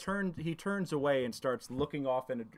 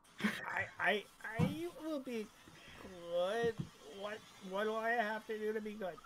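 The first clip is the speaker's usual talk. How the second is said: high, soft, hesitant goblin voice; timid little captive stammering a promise; cowed goblin; 3 semitones higher, 5 dB quieter than usual. Acted. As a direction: plead meekly in a higher, quieter voice. Goblin answers, cowed and pleading.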